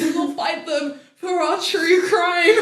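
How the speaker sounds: high mock-heroic rallying cry; rally them to a silly cause; mock wartime speech. Co-host fights for true crime, mock-heroic.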